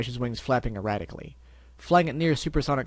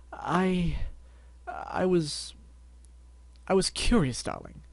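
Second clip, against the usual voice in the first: Rarity voice; 6 semitones higher, much slower than usual. Acted.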